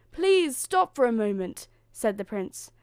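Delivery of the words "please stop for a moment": high, loud plea; calling after her. A narrator's reading. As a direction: plead with her to stop. Prince calls after fleeing Cinderella.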